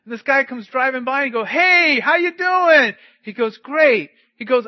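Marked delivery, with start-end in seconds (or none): 1.4-2.9 loud, high roadside greeting; calling out. Retold or imitated. Driver hails a boy who is fishing, calling out. 3.6-4.1 loud, raised shouted reply; calling back. Retold or imitated. Fishing boy answers the driver, calling back.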